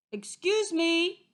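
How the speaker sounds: high, slow, sing-song politeness; syrupy high-pitched courtesy; sweetly. A narrator's reading. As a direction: sweetly coax at the door.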